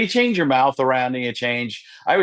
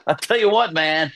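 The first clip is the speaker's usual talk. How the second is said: higher, lightly voiced coach; Gruden catchphrase; 3 semitones higher, 3 dB louder than usual. Gruden thanking sponsors, light coach voice. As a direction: tag it like Gruden.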